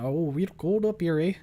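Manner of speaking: rough attempt at Minnesotan; Minnesota accent. Shown as a demonstration. Streamer guessing at an accent on request, tentative Minnesotan. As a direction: try a light Minnesota accent, unsure of it. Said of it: "Is that Minnesotan?".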